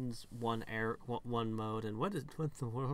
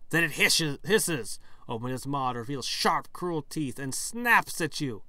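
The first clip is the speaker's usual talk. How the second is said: storyteller building from even to loud and dramatic; story narration; 4 dB louder than usual. Acted. Narrator describing a lake creature attacking, building drama. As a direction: start measured, then punch the attack. Reads game text as story.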